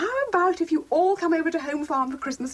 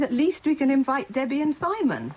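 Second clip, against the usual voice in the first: repeated clearer. Acted. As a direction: say it again so he hears. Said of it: "I said".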